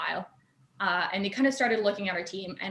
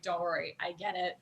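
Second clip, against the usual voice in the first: softer, easy retold reassurance; reassuring; 2 semitones lower, 7 dB quieter than usual. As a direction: imitate someone kindly waving off an apology. Voicing the dean's reassurance.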